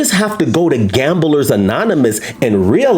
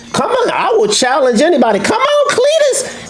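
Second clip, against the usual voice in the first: mock hick taunt. Taunting challengers, high far voice.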